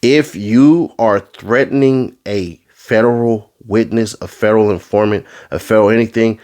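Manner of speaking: slow deliberate warning, each word weighted; emphatic, slow. Real, not acted. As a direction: spell it out firmly. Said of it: "Let me make this emphatically clear".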